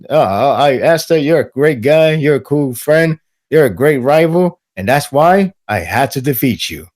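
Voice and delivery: lightly acted friendliness; friendly rival. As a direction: address a respected friend and rival. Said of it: "And it's all friendly".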